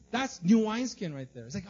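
ordinary talk

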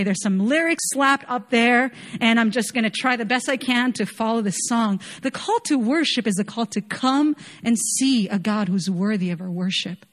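usual speaking voice

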